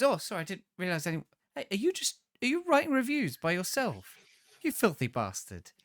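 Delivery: high, loud, shocked bloke bursting in; hammed-up outraged barging in; scandalised intruder. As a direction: barge in appalled at what you've caught him doing. Mock intruder catches him reviewing.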